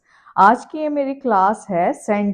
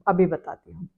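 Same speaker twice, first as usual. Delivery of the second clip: whisper; 4 semitones lower, 5 dB quieter than usual. Real, not acted. Teasing the answer to come.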